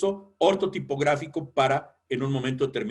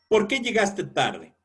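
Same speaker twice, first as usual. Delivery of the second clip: ¿Por qué llegaste tarde? with a firm falling question on qué; 4 semitones higher than usual. Shown as a demonstration. Teacher demonstrating a direct question, qué stressed. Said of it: "Escuchen mi tono".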